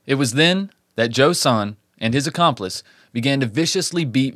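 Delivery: measured storyteller read; true-crime narration. A narrator's reading. Host tells listeners of a Christmas Eve attack, measured narration. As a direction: narrate the case from a script.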